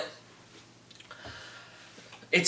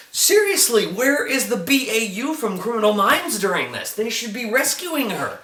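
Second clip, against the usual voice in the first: exasperated; 4 semitones higher than usual. Retold or imitated. Exasperated at show, "I'm like.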